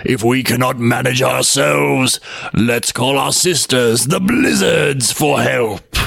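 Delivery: slow, strange windy voices; weary whirlwinds. Acted. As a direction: plot like tired spirits. Whirlwinds speaking.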